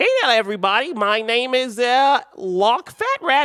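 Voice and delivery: silly, weird cartoon cat voice, very high. Joking late at night to the audience, introduce yourself in a weird voice, doing a character impression. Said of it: "I'm assuming you sound like Meowth".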